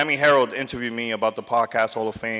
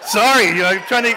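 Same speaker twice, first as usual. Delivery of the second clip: real choked-up apology, higher and louder; holding back tears; 11 semitones higher, 7 dB louder than usual. Real, not acted. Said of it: "trying to hold my tears".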